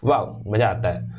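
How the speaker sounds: pleased surprise; mild surprised wow. Shown as a demonstration. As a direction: react with delight. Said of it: "surprise दिखा पाओ".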